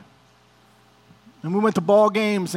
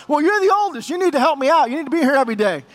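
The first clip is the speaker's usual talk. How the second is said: higher, pressing father's demand; accusing father; 5 semitones higher, faster than usual. Retold or imitated. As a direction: lean on him like a dying dad who wants more. Father repeats his demand.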